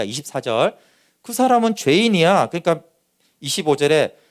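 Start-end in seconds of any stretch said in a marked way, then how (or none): 1.2-2.5 raised, loud accusation; accusing sneer. Acted. Pharisee condemning the healed man, high and loud. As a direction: spit out the charge of sinner.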